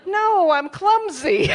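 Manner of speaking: high, slow, loud shouted denial; mock indignant shout; loud protest. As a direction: bellow the correction across the room. Protesting wrong Taboo guesses.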